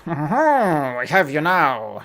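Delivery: slow, lightly voiced cheesy villain; mustache twirling villain. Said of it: "this type of villain".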